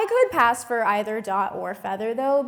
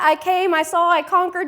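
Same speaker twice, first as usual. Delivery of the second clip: mock boast; 6 semitones higher, 7 dB louder than usual. Mock conquistador boast in a joke.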